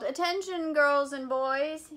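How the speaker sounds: loud, slow, drawn-out call for attention; howled announcement. Acted. Principal howling for the children's attention. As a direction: howl it out to the whole room. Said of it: "appeared and howled".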